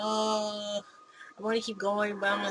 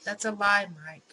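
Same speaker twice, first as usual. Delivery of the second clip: loud furious accusation; shouting down a liar; angry yell; 2 semitones higher, 7 dB louder than usual. Acted. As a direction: yell it through the door. Sarah yells accusation.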